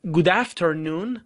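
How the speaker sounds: slow, drawn out Good afternoon; slow model phrase. Shown as a demonstration. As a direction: stretch each word for learners. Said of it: "پس".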